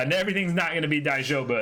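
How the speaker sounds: worked-up rant. Real, not acted. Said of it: "emotional rant".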